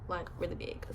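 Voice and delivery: lisping through braces; slight lisp from braces. Real, not acted. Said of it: "a really big lisp with these braces".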